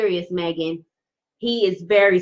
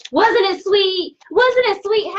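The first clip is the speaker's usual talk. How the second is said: delighted; 10 semitones higher, 4 dB louder than usual. Real, not acted. Tarot reader asking Heather, high and delighted, if it wasn't sweet. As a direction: coo over how sweet it was.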